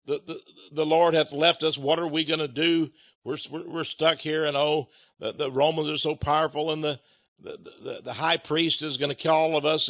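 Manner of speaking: lightly mocking moaning; mild mock lament of scared followers; mock whining. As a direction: whine like frightened disciples, stammering. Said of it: "moaning and whining and saying".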